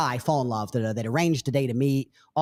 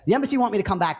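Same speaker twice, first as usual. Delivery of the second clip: higher, mock innocent girl; girl's lame excuse; 6 semitones higher, faster than usual. Imitating the girl giving the man a lame excuse, mock innocent. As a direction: feign innocence.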